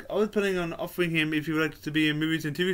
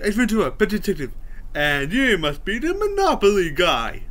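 Ace Ventura impression; 3 semitones higher, 4 dB louder than usual. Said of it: "I just love Ace Ventura".

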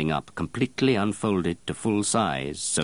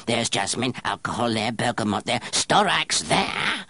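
crowing; 5 semitones higher than usual. Acted. Apprentice crowing scent names at the perfumer, gleeful. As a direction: crow each name like a find. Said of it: "Grenouille went on crowing".

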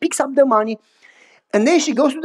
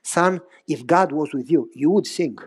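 lower, softer grandfather voice; old grandfather; 6 semitones lower, 4 dB quieter than usual. Retold or imitated. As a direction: speak as the wise old grandpa.

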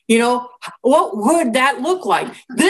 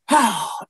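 sigh. Acted. Acts out reaction to interruption.

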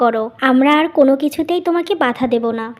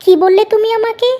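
raised, higher, indignant voice; angry retort; 5 semitones higher than usual. Acted. Wife snapping back at husband about wasted money, angry and raised. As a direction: bristle back at him, offended and defensive.

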